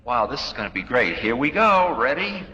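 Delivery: dying soul greets death like a rollercoaster, giddy; eager excitement. Retold or imitated. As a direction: buckle up and cheer on the plunge.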